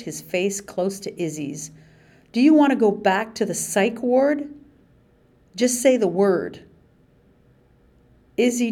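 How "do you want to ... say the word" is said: menacing threat. Acted. Guard threatens Izzy.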